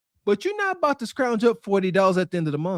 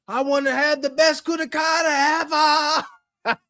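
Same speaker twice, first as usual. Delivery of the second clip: all-out proud declaration; with her whole chest; 5 semitones higher than usual. Retold or imitated. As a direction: announce it with your whole chest. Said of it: "with her whole chest".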